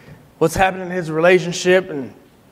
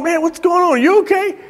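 retold concern; 10 semitones higher than usual. Speaker retells his concern.

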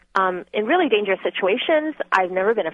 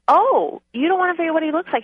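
high, fast mocking outburst from an angry mother; retold furious mom; 8 semitones higher than usual. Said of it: "My mom was so furious".

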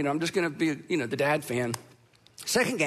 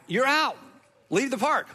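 retold umpire ejecting the coach, raised voice; umpire's call; 4 semitones higher than usual. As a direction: throw him out of the park with a bark.

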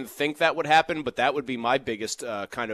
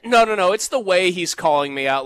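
emphatic loud; 6 semitones higher, 7 dB louder than usual. Real, not acted. Heated rant about a caller.

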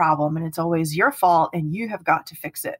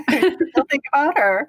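higher, slow, pleading; mock jealous partner; 8 semitones higher, 3 dB louder than usual. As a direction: ham up a clingy partner. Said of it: "I was like".

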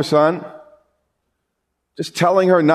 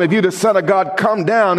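mocking taunt; 4 semitones higher than usual. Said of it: "mocked him".

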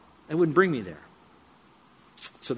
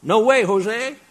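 loud, higher "no, no, no" in a flat refusal; emphatic shouted refusal; 6 semitones higher, 9 dB louder, slower than usual. Retold or imitated. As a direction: bellow it like slamming a door shut. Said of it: "if you want a more contemporary version".

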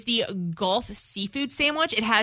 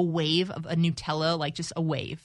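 hushed tease; 5 semitones lower, 7 dB quieter than usual. Acted. Teasing food description, hushed.

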